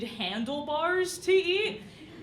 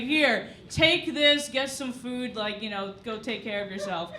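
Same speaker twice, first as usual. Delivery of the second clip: soothing; 4 semitones lower than usual. Retold or imitated. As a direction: gently offer him the gift card. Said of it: "he's like".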